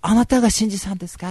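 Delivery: put-on high, loud startled girl voice; mock startled young woman; surprised girl. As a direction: gasp then ask in surprise. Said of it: "美穂さんが".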